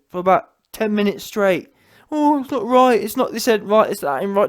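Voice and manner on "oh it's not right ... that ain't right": mock whining. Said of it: "Just whining".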